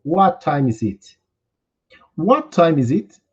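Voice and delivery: What time is it? said slowly, word by word; slow model phrase. Shown as a demonstration. Teacher having students repeat, slow careful model. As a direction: spell it out slowly for the class. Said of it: "repitam comigo".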